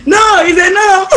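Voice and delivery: mock stern. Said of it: "to say".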